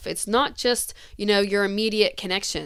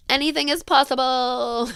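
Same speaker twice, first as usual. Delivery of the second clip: lightly mocking a chirpy ad slogan; mild sarcastic parody of upbeat optimism; 3 semitones higher than usual. Mimicking the girl in a commercial, light mockery. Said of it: "excuse me for just, like, mocking it".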